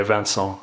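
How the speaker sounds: "Vincent" said the French way, van-SAHN, nasal end; "Vincent" as a French name, van-SAHN. Shown as a demonstration. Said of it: "I'm gonna keep it French".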